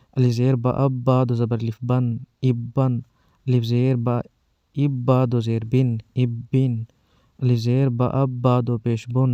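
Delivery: slow, spelled-out syllable drill; firm, paced spelling recital for children; drill reading. Shown as a demonstration. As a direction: read each sound firmly with pauses, like a teacher drilling kids. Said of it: "پہلے آپ کو ایسے پڑھا رہا ہوں".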